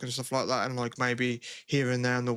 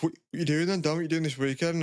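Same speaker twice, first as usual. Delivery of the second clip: mock lad banter; 3 semitones higher than usual. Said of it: "lad banter".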